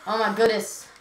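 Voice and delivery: exclaimed surprise. Real, not acted. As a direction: echo the amazement, a bit bigger. Echoing friend's surprised exclamation.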